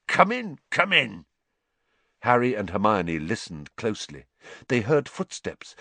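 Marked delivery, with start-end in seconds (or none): 0.1-1.2 higher, happily flustered welcome; weak with happiness. A narrator's reading. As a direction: usher them in, giddy with relief. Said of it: "sounded weak with happiness".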